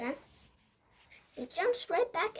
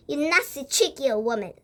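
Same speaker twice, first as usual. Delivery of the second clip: louder indignant outburst; angry shout; 5 dB louder than usual. Acted. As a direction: bark it at the old woman. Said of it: "shouted Mister Jenkins".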